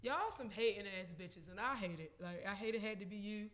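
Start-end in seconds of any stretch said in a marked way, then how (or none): 3.2-3.5 "you" with a Baltimore vowel; Baltimore accent. Shown as a demonstration. Owning up to hometown speech, "you" in a Baltimore accent. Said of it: "like the typical Baltimore nigga".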